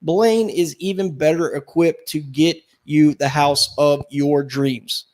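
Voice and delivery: upbeat radio ad read. Acted. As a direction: sell it like a real estate ad. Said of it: "listen to that veteran ad read".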